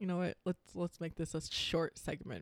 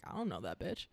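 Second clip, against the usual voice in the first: work voice denial; 8 semitones lower, 8 dB quieter than usual. Retold or imitated. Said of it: "our work voices".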